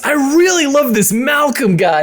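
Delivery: high, laughing fake fan voice; mock bot comment. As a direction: gush like a fake fan account. Voicing Malcolm's bot comment.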